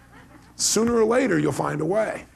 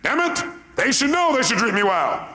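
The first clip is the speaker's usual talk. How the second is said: high, half-laughing mock outrage; indignant inner voice; 8 semitones higher than usual. Voicing a friend who expects better, high mock indignation. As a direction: grumble like a wronged friend, laughing. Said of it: "we hold our friends to a higher standard".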